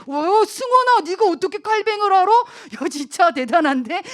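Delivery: high, loud playful astonishment; amazed praise. Pretend. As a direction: make a big show of being amazed. Amazed reaction to listener knowing Calvin.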